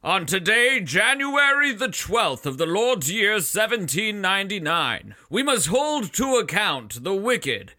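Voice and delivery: lightly voiced court herald; a hint of a pompous crier; town crier. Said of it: "voices that are supposed to be recognizable".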